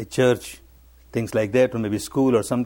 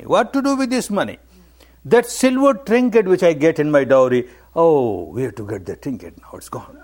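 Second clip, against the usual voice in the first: put-on old lady's lament; 2 semitones higher than usual. Old lady rejects the money, lamenting her lost trinket. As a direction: throw the money back, then let the grief sink away.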